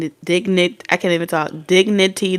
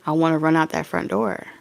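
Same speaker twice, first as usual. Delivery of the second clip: hushed inner thought; 3 semitones lower, 7 dB quieter than usual. Pretend. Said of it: "you be like".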